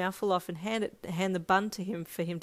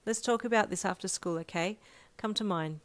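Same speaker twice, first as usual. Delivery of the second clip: smiling. Acted. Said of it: "smiling up at him".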